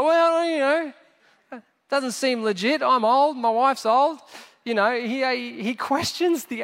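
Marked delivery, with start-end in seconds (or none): 0.0-4.2 mildly acted doubt, pitched up a little; half-acted sceptical objection; sceptical protest. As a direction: play a doubtful old man protesting. Doubting old man questions angel.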